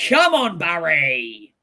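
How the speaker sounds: excited loud cheer. Real, not acted. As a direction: shout it at the screen. Cheering goal.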